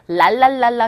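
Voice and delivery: "랄랄랄라" with tongue tip flicking off the upper teeth; L sound. Shown as a demonstration. Teacher demonstrates the L, "랄랄랄라" tapped off the teeth. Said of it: "L 사운드는 혀끝이 윗니 끝에".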